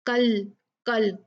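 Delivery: कल with a light front k; light kaf. Shown as a demonstration. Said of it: "ये light काफ है". (कल हल्के काफ से)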